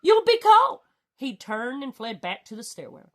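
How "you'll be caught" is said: gasped. Acted. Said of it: "gasped Lord Droon".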